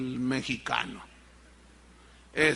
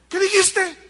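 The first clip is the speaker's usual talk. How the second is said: wife's voice; 11 semitones higher, 6 dB louder than usual. Acted. Wife teasing husband in joke.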